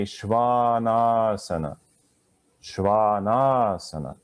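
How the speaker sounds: "Shvanasana" slowly, ahs held long. Shown as a demonstration. Teacher demonstrating to the class, slow held vowels. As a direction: take your time on each ah of "Shvanasana". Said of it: "the long ahs you can hold".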